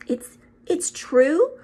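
slow faltering whisper; barely able to ask. A narrator's reading. Professor asks Dumbledore, a faltering whisper. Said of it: "faltered Professor McGonagall".

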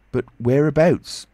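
high, loud, stretched question; insistent interruption. A narrator's reading. Tramp interrupts the invisible man, loudly insistent. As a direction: break in, demanding to know. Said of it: "interrupted Mister Marvel".

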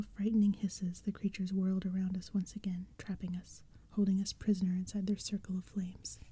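hushed spooky story whisper; whispered storytelling. A narrator's reading. Whole reading whispered.

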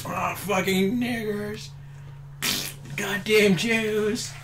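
slow, drawn-out imitated cursing; mock angry straining. Storyteller imagining Jake yelling from the bathroom, mock angry strain. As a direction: drag the words out like a held-back grumbling yell. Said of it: "having a really angry shit".

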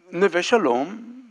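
ordinary delivery

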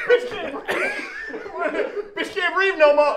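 high, laughing mock of the line; mocking through laughter. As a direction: tease him by repeating it in a giggle. Partner mocks line, laughing.

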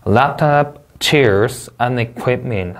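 strong "Laptop" and "chairs", then "and equipment" falling; list intonation. Shown as a demonstration. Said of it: "하고 내려 읽어주시면 되겠습니다".

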